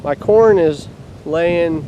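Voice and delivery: shouting over wind. Real, not acted. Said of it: "ripping around in here like crazy".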